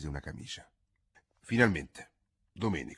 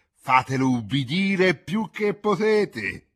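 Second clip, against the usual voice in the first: laughing and coughing; 10 semitones higher, 10 dB louder, slower than usual. Acted. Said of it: "tra gli scoppi di tosse aggiunse".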